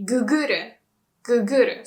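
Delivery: Guguru with a short first gu; short vowel. Shown as a demonstration. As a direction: demonstrate slangy Guguru, no long vowel. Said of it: "get rid of the long vowel".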